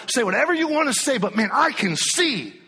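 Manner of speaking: high, loud and quick; defiant preaching. Real, not acted. Preacher defying the doubting world, loud. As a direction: fling it at the doubters.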